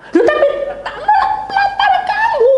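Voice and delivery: very high strained mock wail; breathless, wheezing outburst. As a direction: imitate protesting through a tight, wheezy chest. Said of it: "sesek muni". (meniru protes sesak napas bernada tinggi)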